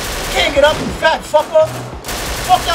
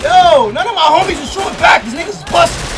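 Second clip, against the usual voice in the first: heated complaint; 4 semitones higher, 4 dB louder than usual. Real, not acted. Complains under fire.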